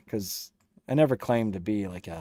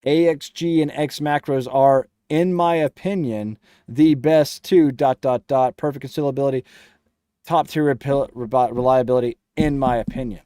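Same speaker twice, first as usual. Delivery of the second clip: louder, mock-pompous reading of his comment; mocking paraphrase; 5 dB louder than usual. Reading a viewer's comment back in a mock-important voice. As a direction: parrot the chatter's words back with exaggerated weight. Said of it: "So what you're saying is".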